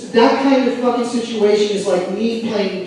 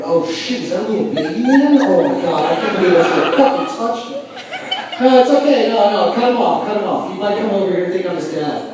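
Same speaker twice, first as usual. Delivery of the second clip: put-on a man panicking that he touched a child; mock panic. Admirer in panic, hammed-up flustered yelling.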